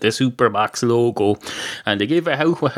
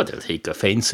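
normal talking voice

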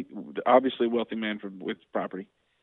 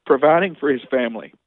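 slow, rising, louder indignant plea; impassioned plea; 4 semitones higher, 3 dB louder than usual. Retold or imitated. Lawmaker pleading with Leland to help sick families, slow and impassioned. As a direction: plead slowly, building with outrage. Passionate retort recalled to Leland.

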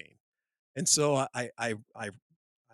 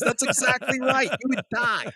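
slower, higher and louder mock Russian deadpan; 12 semitones higher, 7 dB louder, slower than usual. Russian engineer tells the safety guys. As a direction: play the unbothered Russian, slowly. Russian guy confirms deadly drop.

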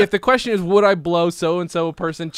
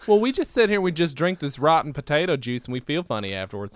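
put-on Idaho accent. Idaho local describing potato juice drinking, mock accent. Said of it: "Why do I have this accent?".

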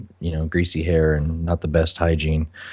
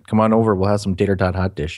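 put-on Minnesota accent. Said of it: "I can do the accent with the best of 'em".

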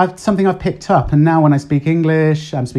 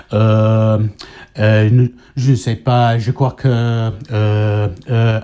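French-style thinking noises, drawn-out uh; French hesitation sounds; 4 semitones lower, slower than usual. Shown as a demonstration. Explaining how the French fill pauses, in French-style hesitation. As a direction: hesitate like a French speaker searching for words. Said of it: "they've got this, uh, sound".

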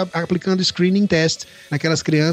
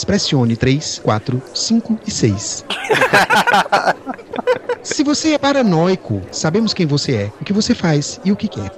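customer service voice. Retold or imitated. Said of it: "atende a secretária eletrônica dizendo".

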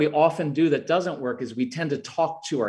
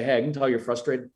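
dad calmly inviting a frustrated son to play catch; calm invitation; 2 semitones lower than usual. Shown as a demonstration. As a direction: invite him out gently. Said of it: "I'd walk in and say".

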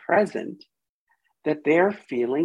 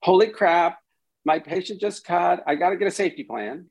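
alarmed therapist; 4 semitones higher, faster than usual. Shown as a demonstration. A therapist mock-panicking because a patient just cut, rushing. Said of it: "as opposed to".

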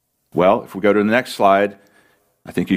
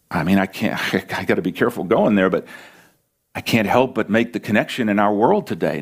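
ordinary talk

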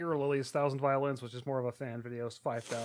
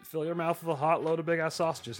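mock ad read; 3 semitones higher, 5 dB louder than usual. Reading a crude caption for laughs.

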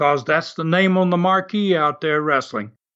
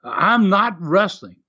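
heel promo; 4 semitones higher, slower than usual. Retold or imitated. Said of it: "He got on the microphone ... he says".

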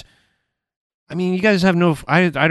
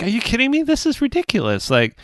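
exasperated disbelief; 4 semitones higher than usual. Retold or imitated. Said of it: "it was like".

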